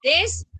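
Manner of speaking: "desoír" broken into des, o, ír; syllable-by-syllable demo. Shown as a demonstration. Teacher demonstrates to pupils, "desoír" divided as des-o-ír. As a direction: say "desoír" in separate pieces, keeping des together. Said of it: "Entonces voy a decir desoír".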